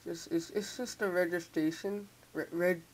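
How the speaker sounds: talking through sore braces; sore jaw from braces. Real, not acted. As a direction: stiff jaw, just-tightened braces. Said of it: "I just got my braces tightened. It's hard to talk".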